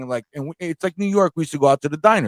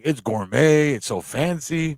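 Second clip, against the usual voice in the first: laughing mock praise; much slower than usual. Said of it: "I was like".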